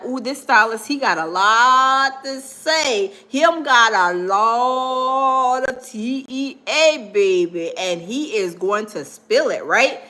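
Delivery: a hint of a sassy gossip; gossipy tea. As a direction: savor the gossip slowly. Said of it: "I'm like".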